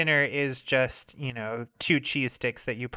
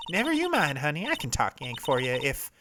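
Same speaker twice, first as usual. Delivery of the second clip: Southern photographer; 3 semitones higher than usual. Acted. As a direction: scold them like an offended country gal. Voices Lotta.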